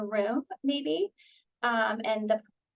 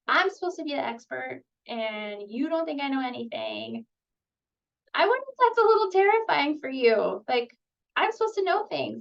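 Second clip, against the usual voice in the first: higher, animated mock surprise; lightly dramatize being called clueless; playful empathy; 3 semitones higher than usual. Shown as a demonstration. Therapist meeting the kid's insult with playful empathy. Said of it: "So you're getting to some empathy".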